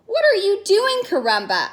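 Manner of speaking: surprised. Acted. Portia asks surprised.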